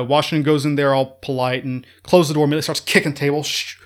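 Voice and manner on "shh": high, strained outburst, cursing his officers; losing his temper. Retold or imitated. Washington behind closed doors curses his officers in a high angry outburst. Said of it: "don't see Washington losing his temper".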